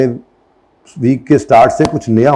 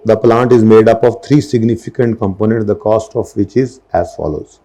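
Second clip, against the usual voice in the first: slow, deliberate dictation read; measured classroom reading; slow textbook reading; much slower than usual. Acted. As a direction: read it out word by word for notes. Reads question aloud slowly.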